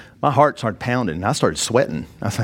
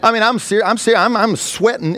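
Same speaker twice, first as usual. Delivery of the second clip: strained, close to tears; 8 semitones higher than usual. Real, not acted. Retelling his panic.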